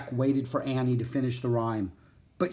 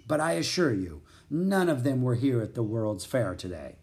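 ordinary delivery

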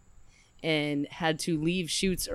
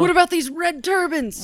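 mock confused; 13 semitones higher, 6 dB louder than usual. Quoting Jack Burton.

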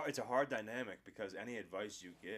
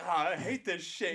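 high, loud, slow complaining; high-pitched fed-up whine; 9 semitones higher, 10 dB louder than usual. Retold or imitated. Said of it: "And then he changes his voice".

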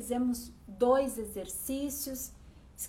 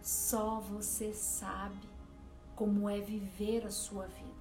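soothing spa whisper. Acted. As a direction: gently guide the listener inward. Leads a guided meditation over music.

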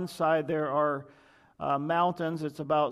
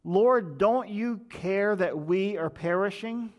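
loud, desperate cry to be saved; panicked plea; 4 semitones higher, 4 dB louder, slower than usual. Retold or imitated. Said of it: "they woke Jesus up and they said".

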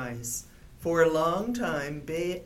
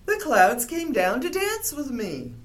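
delighted, a bit higher and louder; excited; 6 semitones higher, 4 dB louder than usual. A narrator's reading. Bear excitedly tells Little Bird about the fog. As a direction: share the happy news. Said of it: "he cried".

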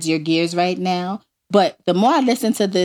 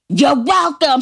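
mock scream; 4 semitones higher, slower than usual. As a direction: yell it sarcastically after someone. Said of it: "I'm screaming".

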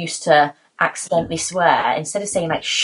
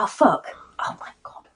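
mock dismay; 3 semitones higher, 3 dB quieter than usual. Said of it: "I'll just trip over something".

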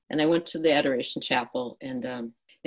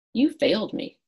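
You failed me, pitched much higher and cracking with hurt; pained accusation; 11 semitones higher than usual. Retold or imitated. Grieving mother accusing God in the chapel, pitched high. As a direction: fling the accusation upward in disbelief. Retold outburst, repeated higher.

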